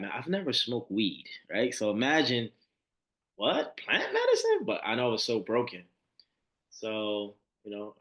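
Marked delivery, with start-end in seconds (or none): 3.3-4.6 shocked disbelief. Retold or imitated. Stunned at the thought of plant medicine.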